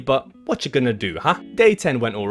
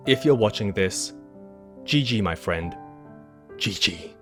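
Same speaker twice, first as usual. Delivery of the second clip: mock-heartfelt farewell. Mock sad farewell over music.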